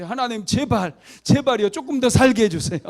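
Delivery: high, loud begging prayer; desperate plea. Retold or imitated. Deaconess pleading with God to let her live, loud and desperate.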